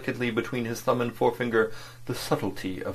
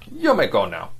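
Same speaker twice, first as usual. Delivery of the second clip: curt; 5 dB louder than usual. Acted. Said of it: "became suddenly very curt, detached, final".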